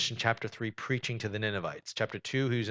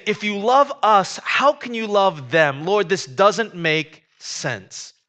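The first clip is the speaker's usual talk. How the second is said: upset protest; 8 semitones higher, 8 dB louder, slower than usual. Retold or imitated. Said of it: "what makes him so upset".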